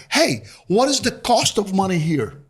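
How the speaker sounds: stiff, word-for-word question from Portuguese; literal translated phrasing. Retold or imitated. Newcomer asking Australians the cost of money, stiffly literal. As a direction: ask it like a newcomer translating in his head. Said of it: "people don't talk like this".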